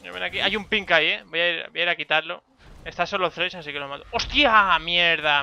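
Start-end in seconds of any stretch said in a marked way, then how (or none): 4.1-5.4 loud startled curse; startled shout. Real, not acted. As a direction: blurt it out in shock. Ambushed and killed.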